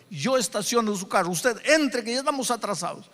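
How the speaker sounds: high, hurried ushering, acted out; desperate urgency. Church elder at the door to the late pastor, desperately urging. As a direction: hustle him inside urgently. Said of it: "El anciano ya estaba en la puerta desesperado".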